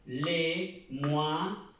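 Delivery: "Les mois" said le mwa, the oi as wa; teacher models "Les mois" with wa sound; French pronunciation. Shown as a demonstration. Teacher modelling French for Spanish students, oi as wa. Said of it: "la O y la I suena ua".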